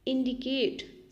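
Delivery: slow. Shown as a demonstration.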